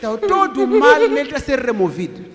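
loud fervent declaration; loud preacher's proclamation; fervent preaching. Real, not acted. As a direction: preach it out with full force. Preaching at full force.

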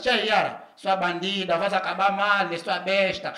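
mock scolding of the neighbour's dog; neighbour's insult. Gossiping neighbour yelling insults at the dog. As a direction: hurl insults across the yard. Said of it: "para assim".

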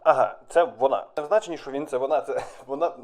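giggling through the correction; laughing clarification. Real, not acted. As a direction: chuckle while fixing the words. (зі сміхом пояснює)

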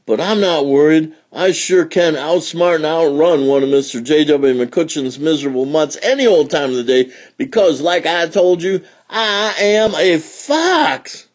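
high bragging fox voice; cocky, sure of himself; boastful fox. A narrator's reading.

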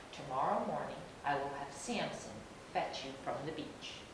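gruff eagle voice. Acted. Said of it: "Marcus seems gruff".

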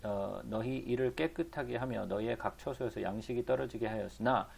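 even, measured Bible reading; scripture reading. A narrator's reading. Preacher reading the prophet's words to the congregation, formal recitation. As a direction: read the verse out formally.

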